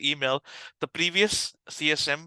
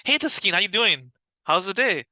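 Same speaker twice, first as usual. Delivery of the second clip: higher, louder, energetic radio-host greeting; excited DJ voice; 6 semitones higher, 5 dB louder than usual. Shown as a demonstration. Caller greeting a customer with an energetic DJ voice, excited. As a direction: greet like a DJ on air. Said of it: "you see the excitement in my voice".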